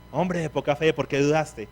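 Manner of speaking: stern scolding read, "Hombre de poca fe" like a rebuke. Shown as a demonstration. Preacher reads Jesus' words as a scolding master. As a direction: read it as a harsh master's reproach. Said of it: "voy a ver esto como un regaño".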